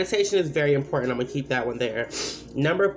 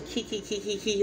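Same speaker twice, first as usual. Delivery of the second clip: light, breathy mock giggles, higher and softer; imitating whispered giggling; 5 semitones higher, 6 dB quieter than usual. Kids at McDonald's mocking her, imitated as higher, softer snickers. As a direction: mimic kids snickering behind her back. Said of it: "they was whispering".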